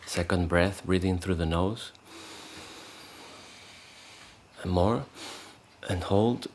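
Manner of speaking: calm, unhurried breathing cues with long pauses; guided meditation. Shown as a demonstration. Meditation teacher leading the group into three breaths, calm guided voice. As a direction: let each short cue lift at the end.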